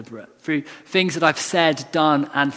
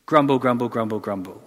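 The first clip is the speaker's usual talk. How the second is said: mock grumbling; 4 semitones lower than usual. Preacher mocking the Israelites' complaint, low grumble. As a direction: mutter it like sulking Israelites. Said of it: "their response is to go".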